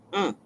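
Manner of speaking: short closed-mouth grunt, imitating her; imitated grunt. Imitating the old woman's grunt while shopping, short grunt. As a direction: mimic her little grunt. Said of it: "I hear her grunt like this".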